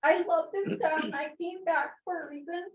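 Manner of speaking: pushing through the tears; real tearful plea; emotional. Real, not acted. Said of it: "I'm very emotional".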